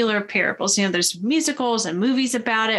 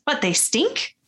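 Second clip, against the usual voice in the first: lightly voiced sidekick, higher and questioning; higher pitch, rising into each question; lightly acted guessing, pitched up; Donkey; 4 semitones higher than usual. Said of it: "And Donkey says".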